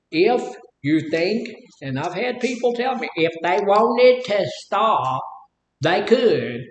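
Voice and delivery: slow, drawn-out Mississippi accent; Mississippi drawl. Shown as a demonstration. Demonstrates how people back home in Mississippi talk, in a slow Mississippi drawl. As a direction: stretch each word the Mississippi way. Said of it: "that's how they talk over there in Mississippi".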